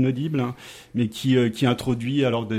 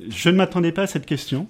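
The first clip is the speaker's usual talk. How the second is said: laughing; 5 semitones higher than usual. Real, not acted. Caught off guard by question.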